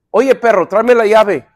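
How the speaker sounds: mildly acted workmate's brusque order. Workman to his mate at work, acted brusque. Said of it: "somos bruscos".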